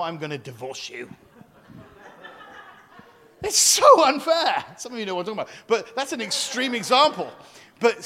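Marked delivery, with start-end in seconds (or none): 3.4-4.6 slow, loud, laughing whine; laughing mock whine. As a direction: wail it through laughter. Mock whine about unfairness.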